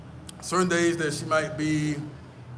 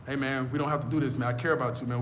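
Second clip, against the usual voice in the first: suave peacemaking; 2 semitones lower than usual. Retold or imitated. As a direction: talk a fight down tenderly, in imitation. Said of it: "they talk like this".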